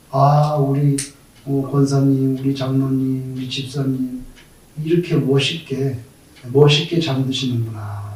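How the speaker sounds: soft, low, reverent murmur; hushed admiration. Acted. Church members watching a believer die, quietly admiring. Mourners admiring a peaceful death.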